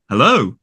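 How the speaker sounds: "hello" with a traditional RP "o"; "hello" ending in a rounded RP glide; different vowel. Shown as a demonstration. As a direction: demonstrate "hello" with the contrasting RP vowel. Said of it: "And there's a different vowel".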